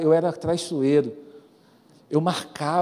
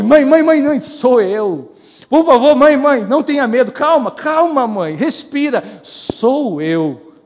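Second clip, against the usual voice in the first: louder, higher, urgent begging; frantic pleading boy; 6 semitones higher, 10 dB louder, slower than usual. Retold or imitated. Boy begs his frightened mother to calm down, loud and panicked.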